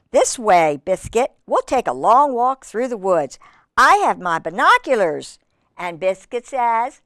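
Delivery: measured, lilting storybook narration; reading to children. Acted. Reader telling children Biscuit's story, in a lilting read-aloud. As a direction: read it clearly to little listeners.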